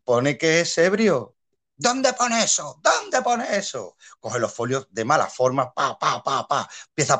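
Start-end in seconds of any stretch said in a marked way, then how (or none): 1.8-4.0 high, slow, affronted demand; mock indignant director. Director challenging the nervous new actor, high slow indignation. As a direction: sneer it out like a haughty director.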